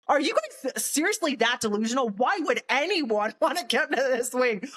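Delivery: high-pitched, laughing disbelief; incredulous. Retold or imitated. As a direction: ask it as if they are delusional, pitch jumping up. Mocking their ban on returning.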